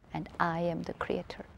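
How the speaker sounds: hushed emphatic whisper; soft whisper. Real, not acted. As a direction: breathe the line as a quiet secret. Stating her key point softly.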